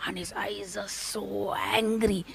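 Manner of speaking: whispered narration. A narrator's reading. Narrating the sadhu's fury.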